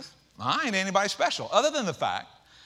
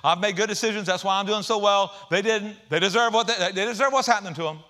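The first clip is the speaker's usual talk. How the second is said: self-righteous; 3 semitones higher, 7 dB louder than usual. Retold or imitated. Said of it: "We get all self-righteous".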